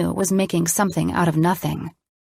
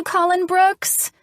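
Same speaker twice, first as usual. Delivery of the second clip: high, drawn-out scream of his name; squealing his full name; 13 semitones higher, slower than usual. A narrator's reading. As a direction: shriek his name with delight. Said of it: "she screamed".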